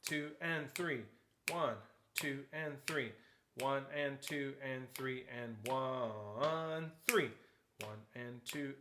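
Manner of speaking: counting aloud in steady time; rhythmic counting. Shown as a demonstration. Teacher showing the rhythm of the variation, counting in time. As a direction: count the beats, holding the long notes. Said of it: "let's look at the rhythm".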